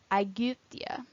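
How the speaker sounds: "Aegyptia" with Y as a rounded French U. Shown as a demonstration. Teacher showing Greek Y, "Aegyptia" with French U sound. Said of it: "pronounced like the French U".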